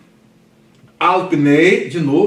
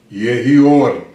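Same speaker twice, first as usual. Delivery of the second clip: a touch of a commanding divine voice, louder; lightly voiced God speaking the command; 3 semitones lower, 4 dB louder than usual. Shown as a demonstration. Teacher showing students how God says let there be light, mild command. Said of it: "a voz de Deus".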